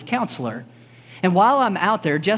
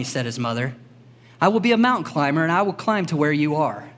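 gentle storybook read-aloud; 2 semitones lower than usual. Real, not acted. Pastor reading The Runaway Bunny to the kids, gentle storybook voice. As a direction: read it like bedtime story time.

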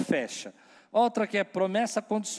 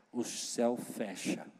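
hushed; 6 semitones lower, 7 dB quieter, slower than usual. Shown as a demonstration. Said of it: "eu vou falar baixinho".

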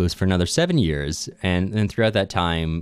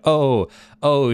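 mock groan; 6 semitones higher than usual. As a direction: ham up a seductive groan. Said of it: "she groans".

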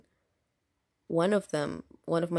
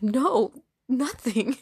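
higher, louder mock-defensive protest; flustered denial; 7 semitones higher, 7 dB louder, much slower than usual. To a coworker asking what she did, flustered denial. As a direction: blurt out an exaggerated denial.

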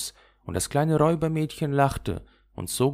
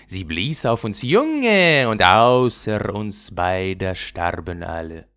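louder, strange dove voice telling a sad tale; sing-song pigeon voice, slowing for the deaths; wood pigeons; 6 dB louder than usual. Acted. Waldtauben erzählen von Kai. (Waldtaubenstimme, lauter, klagend)

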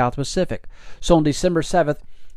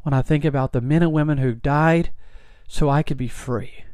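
choked up. Real, not acted. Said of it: "I always get choked up".

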